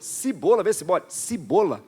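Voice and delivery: cibola drawn out with a rising tune, i in first syllable; repeating cibola. Shown as a demonstration. Pastor repeating the regional cibola to the church, amused. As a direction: echo cibola, playful i. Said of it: "Fala cibola".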